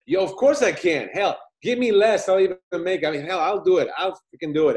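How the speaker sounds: put-on loud, high, eager drunk boasting; drunk excitement. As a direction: talk yourself up like a tipsy filmmaker. Drunk narrator accepting the bet.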